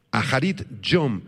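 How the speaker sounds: "Aharit yom" with aspirated H, stress on I and O; accent the last syllable of "Aharit", then the O of "yom"; Hebrew pronunciation demo. Shown as a demonstration. Pastor repeats the Hebrew for the class, "Aharit yom" carefully stressed. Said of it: "con acento en la O".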